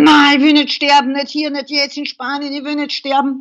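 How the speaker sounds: a burst of raging defiance, starting loud; retold furious refusal; angry defiance. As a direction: fight back against dying. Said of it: "diese Wut gekommen".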